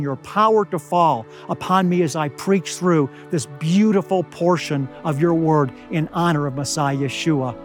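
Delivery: ordinary delivery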